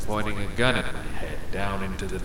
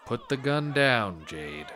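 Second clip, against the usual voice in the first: nervous laugh; 3 semitones higher, slower than usual. Acted. Laughing while gun pointed.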